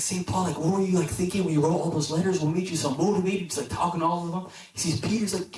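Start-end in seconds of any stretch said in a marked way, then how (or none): 0.0-3.4 eager, higher-pitched questioning; excited fan. Acted. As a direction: gush questions at your idol. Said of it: "He's, like, so excited".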